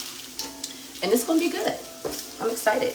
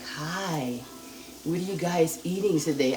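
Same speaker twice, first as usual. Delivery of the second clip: quieter, gentle mock of how she talks; mimicking her own soft voice; 6 dB quieter than usual. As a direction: imitate the soft way she greets viewers. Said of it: "The way he was teasing me".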